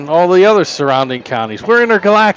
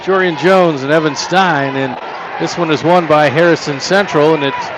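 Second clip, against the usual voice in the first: live play-by-play. Acted.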